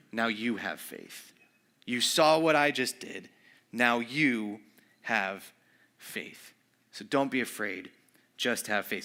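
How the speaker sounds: soft, slow and hushed, the last word almost whispered; gentle reassurance. Acted. Jesus quietly reassuring the grieving father, soft and slow. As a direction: lean in and calm a frightened father.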